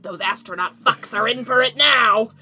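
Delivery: slow, creepy inner voice; gross voice. Retold or imitated. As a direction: drag it out like a gross voice in your head. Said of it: "a gross voice in her head that said".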